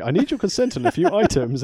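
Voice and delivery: high, fast mock Japanese accent; fake Japanese. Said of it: "what Yoko was saying".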